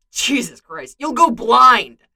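building to a loud, drawn-out finish; scold, then land hard on the last word; exasperated scolding. Acted. Bucky scolding Clint over his porn count, exasperated.

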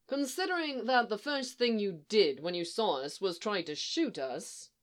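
dry, measured irony. Acted. Obi-Wan reminds the boy who shot first, dry. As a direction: point it out drily, slowing at the end. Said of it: "says Obi-Wan dryly".

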